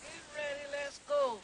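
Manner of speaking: high, loud game call. Real, not acted. Calling start of shout game.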